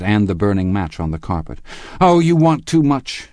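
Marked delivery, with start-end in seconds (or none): 2.0-3.3 high, loud protest; distressed cry. A narrator's reading. Daisy protests to Gatsby, crying out. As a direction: cry out, overwhelmed by his demands. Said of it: "she cried to Gatsby".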